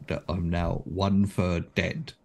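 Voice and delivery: laughing. Real, not acted. Player laughing at damage.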